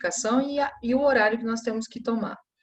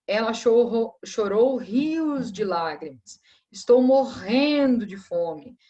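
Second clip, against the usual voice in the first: exaggerated drama; 2 semitones higher, 5 dB louder, slower than usual. Shown as a demonstration. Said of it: "aquele exagero nas coisas".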